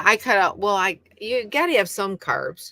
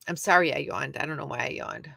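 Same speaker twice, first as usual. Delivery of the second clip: normal talking voice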